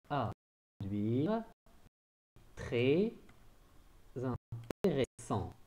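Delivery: "À" set apart, then slow "très intéressant"; slow dictation. Shown as a demonstration. Teacher rereading the sentence slowly for dictation. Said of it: "un accent sur la préposition à".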